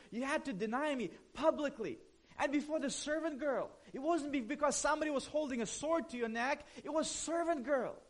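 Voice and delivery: a pastor acting out a hypothetical telling-off, understated; pretend scolding. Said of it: "to kinda scold him and shame him a little bit".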